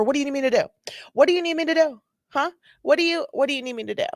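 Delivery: high, pestering drunk imitation; exaggerated tipsy whine, pitched high; mock drunk woman. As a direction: mimic an indignant drunk repeating herself. Acts out the drunk driver.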